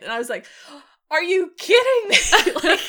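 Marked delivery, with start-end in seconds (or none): 1.1-2.2 loud, high disbelief; incredulous outburst. Retold or imitated. Viewer reacting to the episode beside her brother, incredulous outburst. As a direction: exclaim it louder and higher, half laughing.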